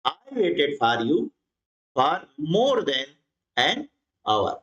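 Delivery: very slow word-by-word reading; slow, deliberate classroom reading; slow dictation. Shown as a demonstration. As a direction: read the answer out slowly for students to copy. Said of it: "इस प्रकार से".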